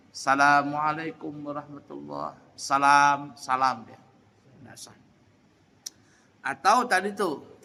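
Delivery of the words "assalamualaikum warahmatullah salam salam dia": "Assalamualaikum" said as "salamualaikum"; no alif lam. Shown as a demonstration. Teacher recapping the wrong salam without alif lam. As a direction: skip the as- entirely. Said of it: "tidak membaca alif lam".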